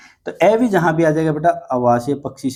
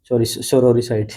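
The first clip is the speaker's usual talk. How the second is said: slow pronunciation; 2 semitones lower, much slower than usual. Shown as a demonstration. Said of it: "S for sorry".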